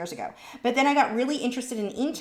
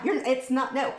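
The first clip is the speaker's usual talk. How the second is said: usual speaking voice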